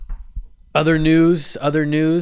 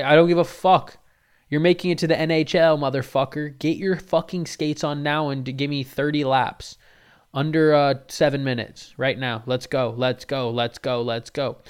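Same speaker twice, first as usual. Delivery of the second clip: loud, higher drill-sergeant shouting; yelling coach dad; 3 semitones higher, 6 dB louder than usual. Retold or imitated. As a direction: scream orders, fading to chanting. Dad yells at son.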